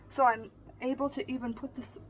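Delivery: talking through hiccups; a hiccup breaking the sentence. Real, not acted. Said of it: "I got the hiccups".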